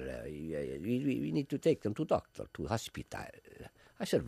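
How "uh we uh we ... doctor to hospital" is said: mock Italian accent. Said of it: "I pretend they're Italian".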